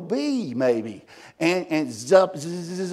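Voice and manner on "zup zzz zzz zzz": buzzing bee noise. Retold or imitated. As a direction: buzz like a bee zipping around. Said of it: "like that".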